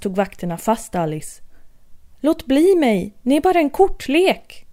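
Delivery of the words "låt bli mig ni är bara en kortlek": mild mock yell. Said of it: "skrek hon".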